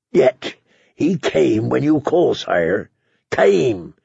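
measured appeal, built phrase by phrase; lightly voiced advocate pleading for the common folk; earnest pleading knight. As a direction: plead the case with deliberate weight. Davos pleads for Celtigar's people.

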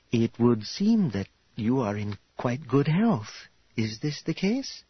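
lightly voiced formal matchmaking hostess; formal, probing hostess. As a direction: politely size up a suitor, in measured speech. Voices Karya questioning her suitor.

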